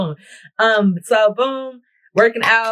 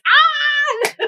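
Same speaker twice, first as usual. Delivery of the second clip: a short, very high "Ah!" shriek; high mock shriek; 4 dB louder than usual. Real, not acted. Reacting to the workout's name with a high shriek.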